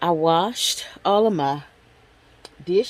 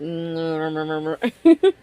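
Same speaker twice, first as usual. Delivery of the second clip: mumbled mouth sound; 2 semitones lower than usual. Shown as a demonstration. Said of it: "I kinda talk like".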